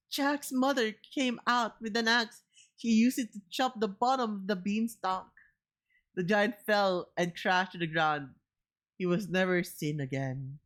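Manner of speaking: put-on gentle children's book narration; story narration. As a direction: read it like a bedtime story. Reads the children's story aloud.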